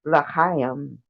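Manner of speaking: l'chaim with a throaty ch; Hebrew pronunciation. Shown as a demonstration. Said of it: "Just like Jewish people do that".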